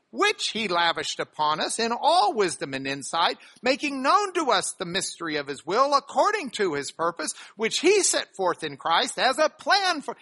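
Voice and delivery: measured reading of the passage to the congregation; scripture reading. Acted. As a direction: read it out like a text from the pulpit.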